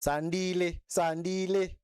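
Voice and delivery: careful native-style Sandile, S not Z; correct Sandile. Shown as a demonstration. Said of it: "You have to do with that accent".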